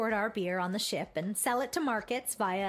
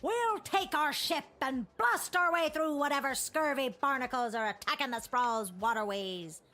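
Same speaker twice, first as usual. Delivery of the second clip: hearty pirate captain. Acted. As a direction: boast like a sea captain. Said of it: "that stupid voice".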